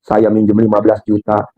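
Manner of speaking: mock complaining prayer. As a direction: whine to God half in jest. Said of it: "ya tuh ngeluh".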